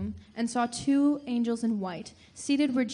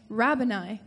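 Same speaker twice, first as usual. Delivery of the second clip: cried out; 4 dB louder than usual. Acted. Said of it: "cried out in Aramaic".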